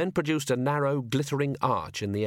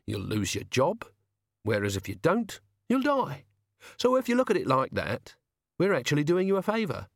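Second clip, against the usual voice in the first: put-on higher, cheerful voice of a polite young killer; sweetly reasonable menace, pitched up; polite menacing toff; 6 semitones higher than usual. Young toff threatening a coachman with calm politeness.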